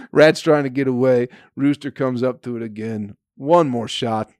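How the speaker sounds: ordinary talk, nothing marked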